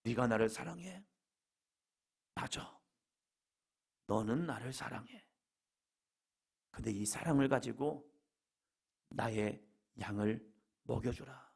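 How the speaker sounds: soft, low, tender reassurance; gentle acceptance. Acted. Jesus accepting Peter's love instead of blaming him, gentle acceptance. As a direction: accept him quietly, with pauses.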